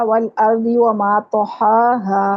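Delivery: slow recitation, و in وما made with rounded lips; careful recitation. Shown as a demonstration. Teacher reciting the verse for her class, slowly. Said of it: "اس لفظ کو ٹھیک نہیں پڑھا".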